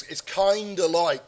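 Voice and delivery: drawn-out "kinda" with no v sound; mock American "kinda". Shown as a demonstration. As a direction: linger on a put-on transatlantic "kinda". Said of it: "he will say "kinda".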